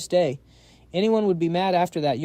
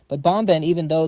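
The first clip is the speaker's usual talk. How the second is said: calling out; 6 dB louder than usual. Acted. Emperor calls out.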